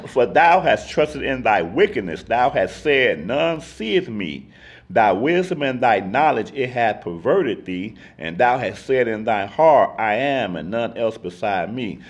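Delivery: measured Bible reading aloud; scripture reading. Acted. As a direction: read the verse out with even, deliberate weight. Reads scripture aloud to the group.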